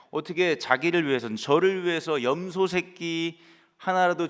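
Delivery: a preacher half-acting an older son's angry complaint; angry outburst. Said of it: "아버지에게 버럭 화를 내고 있습니다".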